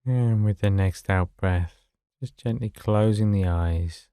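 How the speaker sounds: level, unhurried meditation voice with long pauses; guided meditation. Acted. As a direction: gently guide them to settle, phrase by phrase.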